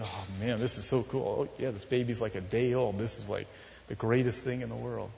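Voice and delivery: softly retold wonder, low and quiet; hushed awe. Voicing a couple's awe at newborn.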